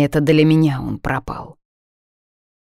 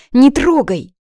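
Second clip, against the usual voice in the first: much higher, louder cry; pained shout; 10 semitones higher, 6 dB louder, slower than usual. Acted. Heroine screams at friend not to touch her wrist, loud.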